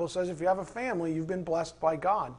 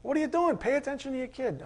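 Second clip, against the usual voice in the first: a fired-up rant, much higher and louder; heated rant; 6 semitones higher, 4 dB louder than usual. Real, not acted. Preacher rants at phone-obsessed parents ignoring their kids, a heated, high, loud rant. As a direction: let the outrage pour out at the neglectful parent. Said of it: "Okay, that's my rant".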